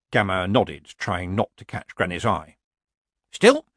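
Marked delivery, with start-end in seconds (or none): 3.3-3.7 higher, louder conciliatory cheer; smooth it over pleasantly, voice lifted. Acted. Granny reassures the gathered witches, pleasantly. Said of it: "Granny said pleasantly".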